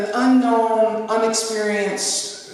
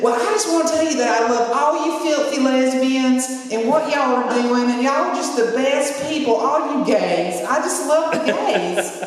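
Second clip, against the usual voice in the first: loud Jeff; 4 semitones higher than usual. Retold or imitated. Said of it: "And he's really loud".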